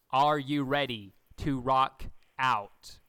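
slow, loud rock-star call; hammed-up rocker hype. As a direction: belt it like a rocker. Quoting Zach.

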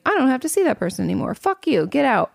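imagined telling-off, hammed up; mock angry outburst. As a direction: fling it at them, half joking. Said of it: "if we could just be like".

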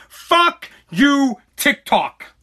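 planned angry first video to TikTok, furious; angry rant at TikTok. Pretend. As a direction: spit it out slowly at the app. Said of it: "I'm gonna say".

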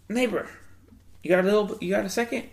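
imitating the neighbor. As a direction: put on the neighbor's eager ask. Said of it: "he was like".

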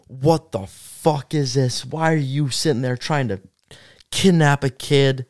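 slow, measured mock scolding; imitated angry dad. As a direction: draw out the words like a dad demanding answers. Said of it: "and he's like".

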